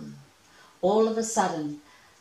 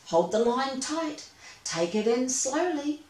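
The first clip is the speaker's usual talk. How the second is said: urgent call; 6 semitones higher than usual. Acted. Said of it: "exclaimed Nicholas".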